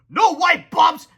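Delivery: high, loud defiant cry. A narrator's reading. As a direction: cry out refusing. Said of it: "cried Captain Underpants".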